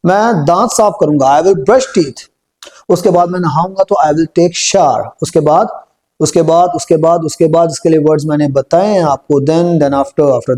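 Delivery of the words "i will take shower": very slow, word-by-word model sentence; slow spoken drill. Shown as a demonstration. Teacher spells out the sentence slowly for the class. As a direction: stretch out each word for learners to copy. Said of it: "इनको पहले बोल के देख लेते हैं".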